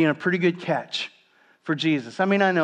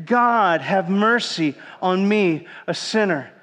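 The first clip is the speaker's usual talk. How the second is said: louder, building; 2 semitones higher, slower than usual. Shown as a demonstration. Preacher urging the congregation to repeat the prayer louder. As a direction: push the congregation to say it with more force. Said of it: "Let's say it again".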